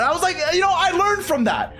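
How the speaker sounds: laughing. Real, not acted. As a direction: laugh through it at your past self. Laughing at his younger self.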